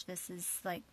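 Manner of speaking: soft hushed whisper of disbelief; whispering to herself after the disaster; despairing whisper. Retold or imitated. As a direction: breathe it out like you can't believe it. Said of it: "I was like".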